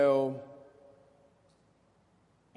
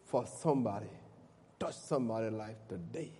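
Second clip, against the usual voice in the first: soft, hushed prayer to the Lord; 4 semitones lower, 4 dB quieter than usual. Acted. Pastor opening his talk with a quiet prayer, hushed and reverent. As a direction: pray it low and humble, eyes closed. Pastor prays before preaching.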